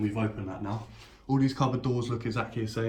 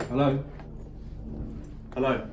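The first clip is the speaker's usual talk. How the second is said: calling out. Real, not acted. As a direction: call out to check who's there. Calling out after door slam.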